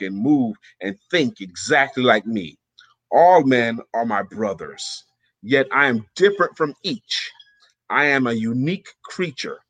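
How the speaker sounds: measured, solemn recitation; formal read-aloud with pauses between phrases. Pretend. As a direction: read it out as a deliberate affirmation. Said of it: "Let me get my reading voice".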